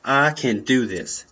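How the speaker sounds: firm, steady self-talk; with conviction. Shown as a demonstration. Coaching himself before a speech, with conviction. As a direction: say it like you mean it. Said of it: "You say it with conviction".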